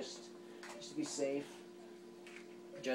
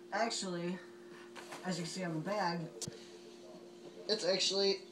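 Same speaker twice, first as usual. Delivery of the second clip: talking through a gas mask voice emitter; muffled mask voice, slightly higher; 4 semitones higher than usual. Real, not acted. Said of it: "I'm gonna put it on so you get to see the voice emitter".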